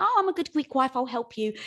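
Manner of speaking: mock dutiful wife. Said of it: "like my husband".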